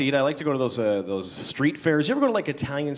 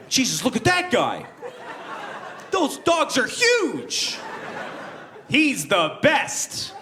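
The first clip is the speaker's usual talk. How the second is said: high, slow, amazed bystander voice; awed onlookers; 10 semitones higher, much slower than usual. Retold or imitated. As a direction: gawk like a crowd in awe. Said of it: "They were going".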